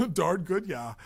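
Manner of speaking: put-on laughing Wisconsin-Canadian accent, high and loud. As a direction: echo the hammed-up Wisconsin accent through a laugh. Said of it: "Wisconsin accent or a Canadian accent".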